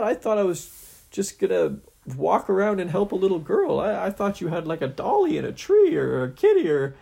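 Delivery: high, loud nervous babble; panicky hero voice. Acted. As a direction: stammer in rising panic.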